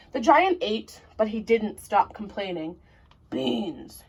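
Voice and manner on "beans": grumbled. Acted. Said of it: "he grumbled".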